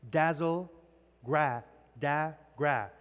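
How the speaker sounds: "dazzle", then "gra, da, gra" as separate syllables, matching the short a; showing the assonance. Shown as a demonstration. Teacher shows a class the assonance, "gra, da, gra" broken into syllables. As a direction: isolate the echoing vowel in "gra, da, gra". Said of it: "That's assonance".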